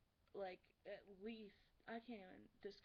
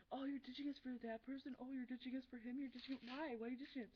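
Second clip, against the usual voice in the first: retold whiny-style protest, higher and louder; mock nagging; 4 semitones higher, 4 dB louder than usual. Friends pestering her about being ditched, mock nagging. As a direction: imitate friends pestering with complaints.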